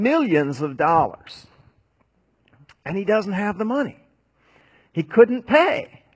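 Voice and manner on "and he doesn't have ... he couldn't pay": higher and louder, slowed on the blow; dramatic preaching. Acted. Dramatic climax of debt.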